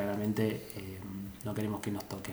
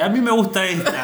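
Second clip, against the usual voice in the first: imitating Sandrita; 7 semitones higher, 5 dB louder than usual. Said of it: "Sandrita agarró la lapicera y dice".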